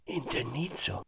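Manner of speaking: scornful, fake-laughing echo of the word Indennizzo. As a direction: toss back Indennizzo with a hollow false laugh. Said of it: "rise falsamente".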